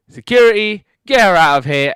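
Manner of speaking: high, loud mock yell; calling security. Calls security on his wife.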